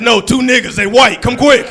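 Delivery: high, shouted Karen on the phone; frantic, loud mock caller. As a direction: insist loudly to the dispatcher. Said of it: "this is my Karen voice".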